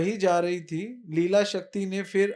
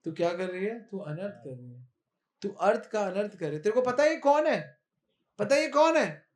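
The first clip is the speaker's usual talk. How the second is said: scolding Dau. Acted. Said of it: "तो दाऊ जी बोले".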